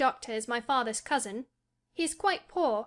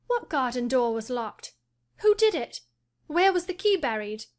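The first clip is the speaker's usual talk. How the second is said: much higher and louder, suddenly eager questions; exclaiming; 6 semitones higher, 6 dB louder than usual. A narrator's reading. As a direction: fire the questions off, all at once excited. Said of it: "he exclaimed".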